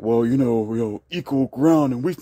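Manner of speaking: imitating a gentle, fair-minded partner; lightly mock the reasonable compromise tone; a hint of a soothing peacemaker; mock soft reasonable voice. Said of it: "I'm not talking about fair like".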